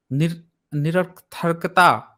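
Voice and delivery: "निरर्थकता" attempted slowly in broken pieces; stumbling pronunciation. Real, not acted. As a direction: stumble on "निरर्थकता", restarting after the first syllable. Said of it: "pronunciation गड़बड़ हो रहा है".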